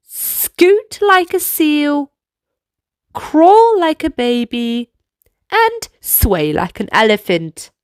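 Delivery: put-on lively kids' dance leader; upbeat instructions for little dancers; movement coaching. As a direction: lead the children through the moves.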